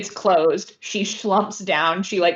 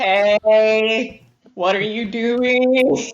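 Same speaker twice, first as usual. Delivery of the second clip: louder indignant Hey, slowed; annoyed protest; 2 semitones higher, 4 dB louder, much slower than usual. Acted. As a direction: call out in mock outrage. Agatha shoved into snow.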